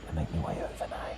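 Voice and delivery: soft voiceless whisper. Real, not acted. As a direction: keep whispering while creeping. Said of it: "Sorry I have to whisper".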